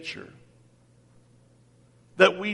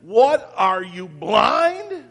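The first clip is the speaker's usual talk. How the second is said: mock taunt; 3 semitones higher, slower than usual. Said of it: "this idea of".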